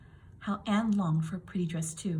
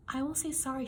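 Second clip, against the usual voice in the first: sniffled; 6 semitones higher than usual. A narrator's reading. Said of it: "she sniffled".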